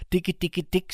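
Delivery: the system cooing with a false smile; mocking coo. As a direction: coo it like a sneering monster. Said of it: "siger systemet og smiler".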